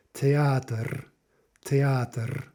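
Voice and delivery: "theater" as the Russian word, ending on a syllabic R; Russian final R. Shown as a demonstration. Teacher demonstrating Russian word for "theater", final syllabic R. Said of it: "a final R".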